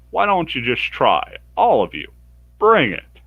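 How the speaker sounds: building from cocky to a high loud challenge; the boy daring the whole party to fight him, climbing to a shout; rising taunt. Acted.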